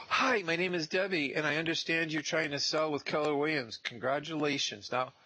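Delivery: high, sweet greeting, slowing at the end; bright door-knock pitch. Shown as a demonstration. Intern pitching a listed seller at the door, high and sweet. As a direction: sell the plan B politely with a smile. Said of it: "I go".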